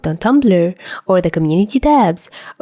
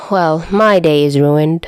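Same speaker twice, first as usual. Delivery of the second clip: glum. Acted. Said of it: "Dazai's glum voice".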